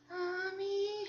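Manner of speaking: put-on high, drawn-out child's plea; Rachel. Daughter looking up at mom before the big ask, wheedling. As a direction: wheedle like a little girl after a favor. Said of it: "she'll look up and, and she'll go".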